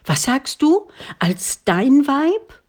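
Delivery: put-on old father crying out, stunned by the marriage proposal; astonished cry. A narrator's reading. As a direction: blurt it out in sheer disbelief. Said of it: "nicht richtig verstanden zu haben".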